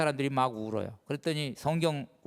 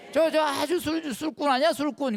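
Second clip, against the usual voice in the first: mocking Pharisees; 9 semitones higher than usual. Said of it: "바리사이들이 막 뭐라 그랬죠?".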